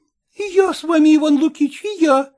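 high, quick and merry; a girl eagerly joining in; bright quick girlish chime-in; cheerful. A narrator's reading. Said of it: "весело проговорила Лидия".

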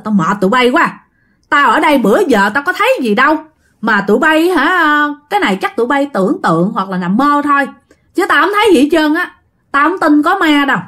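acted-out irritated disbelief; retold annoyance. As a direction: brush off their ghost talk, mildly exasperated. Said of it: "Cái lúc này bạn cũng bực bội rồi".

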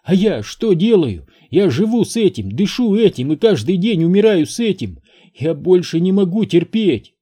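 high, loud anguished outburst; furious tearful outcry. A narrator's reading. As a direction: pour out the pain she lives with. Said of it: "взорвалась Энн".

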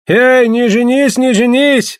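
high, loud, drawn-out protest; loud pleading cry; shouting. A narrator's reading. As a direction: call out in alarm to stop him. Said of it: "закричали гольды".

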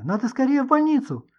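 high, urgent frightened plea; alarmed cry. Acted. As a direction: push them toward the hospital in panic. Manya keeps shouting in alarm.

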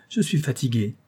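lightly voiced weary little boy; small boy whining he's tired; tired child. A narrator's reading. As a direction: sound like a sleepy child. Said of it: "au son de la voix enfantine".

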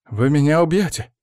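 high, anxious questioning; frightened question. A narrator's reading. Cursed man wide-eyed before his rescuers, frightened question. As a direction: ask fearfully, pitch climbing at the end.

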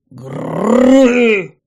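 loud, rolling monster roar; thunderous growl. A narrator's reading. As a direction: roar like a goblin mother. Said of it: "орала она".

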